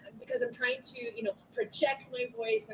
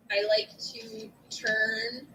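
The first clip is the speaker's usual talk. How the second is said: slow demo; 2 semitones lower, much slower than usual. Shown as a demonstration. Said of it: "Don't forget I made those comments".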